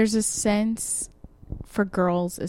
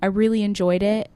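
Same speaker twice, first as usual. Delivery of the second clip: polite breakup line; 2 semitones higher than usual. Pretend. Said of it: "if you say, like".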